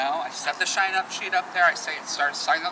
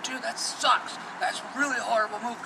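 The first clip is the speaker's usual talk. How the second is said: whiny comic; 7 semitones higher than usual. Retold or imitated. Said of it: "right in my face going".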